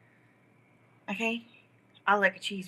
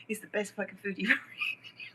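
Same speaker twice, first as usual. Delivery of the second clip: fast whisper; 5 dB quieter, faster than usual. Acted. Whispered aside in a rant.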